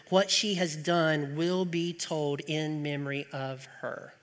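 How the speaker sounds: measured, solemn Bible reading; scripture reading. Acted. Preacher reading Mark to the congregation, solemn. Reads Gospel passage aloud.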